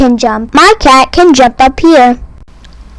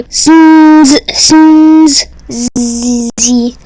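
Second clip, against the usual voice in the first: mock snoring; much slower than usual. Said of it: "I don't know how to pronounce that".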